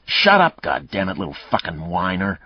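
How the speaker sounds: angry snarl, loud on the first words. Acted. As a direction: spit it at her, then let it drop. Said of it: "Mayle snarled".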